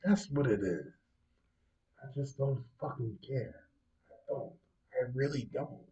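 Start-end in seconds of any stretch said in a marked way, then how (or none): 2.0-5.8 much softer, hushed sincerity; most sincere tone. Real, not acted. Host insisting he doesn't care about the royals, sincerely and softly. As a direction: drop the volume and mean it. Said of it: "I say this in the most sincere tone".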